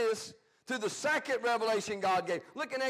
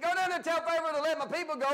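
higher, louder, proclaiming God's order; forceful command; 7 semitones higher, 3 dB louder than usual. Retold or imitated. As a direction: boom it out like a prophet. God's command retold, raised.

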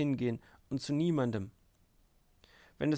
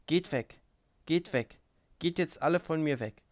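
higher, urgent dismissal; agitated dismissal; 4 semitones higher than usual. A narrator's reading. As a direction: send them all away, voice pitched up. Agitated farewell, sending everyone away. (aufgewühlt fortschicken, mit höherer Stimme)

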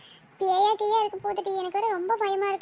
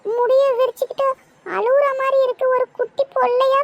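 louder, alarmed; louder scared voice describing a crying ghost; frightened telling; 3 semitones higher, 6 dB louder than usual. Acted. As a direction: blurt out what you see, panicking. Frightened friend sees the ghost.

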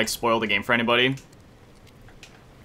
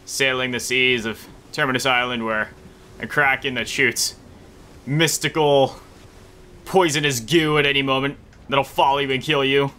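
ordinary talk, nothing marked

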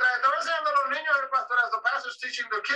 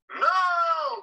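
put-on kids shouting no; 8 semitones higher than usual. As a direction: yell it like eager children. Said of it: "Gritaron todos que no".

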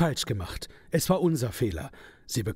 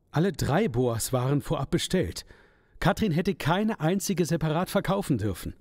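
normal talking voice

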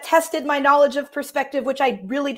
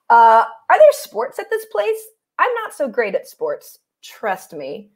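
worried camper animal; slower than usual. Acted. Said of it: "trying to go a little bit higher or lower depending on each animal".

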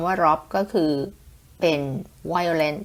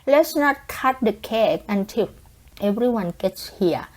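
example sentence read; 4 semitones higher, much slower than usual. Shown as a demonstration. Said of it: "ในประโยคที่บอกว่า".

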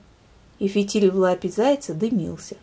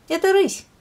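hare voice, high; 12 semitones higher, 5 dB louder than usual. Acted. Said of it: "сказал заяц".

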